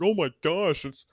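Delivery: loud, high, slow gushing over a celebrity; mock starstruck American drawing out Seth Rogen; mock starstruck fan. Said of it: "Americans were like".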